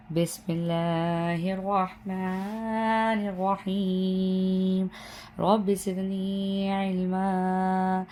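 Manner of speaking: slow, drawn-out Quranic recitation; slow recited prayer. Real, not acted. Teacher opening the lesson with a prayer, slow recitation. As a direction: intone the Arabic prayer slowly and devoutly. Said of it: "دعا کے ساتھ کرتے ہیں".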